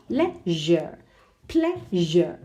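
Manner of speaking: "Leisure", "pleasure" split before "zhure"; teacherly "lei-zhure, plea-zhure"; demonstrated syllables. Shown as a demonstration. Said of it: "it's on the U R E".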